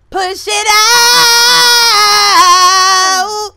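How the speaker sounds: drawn-out, straining "out" shout; birth-coach holler; loud labor coaching. Pretend. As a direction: stretch out into a long high yell. Calling out a labor push.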